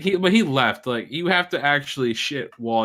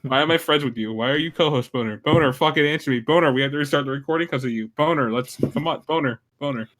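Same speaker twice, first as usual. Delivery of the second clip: impression of Lollipop; 2 semitones higher than usual. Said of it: "That's actually accurate".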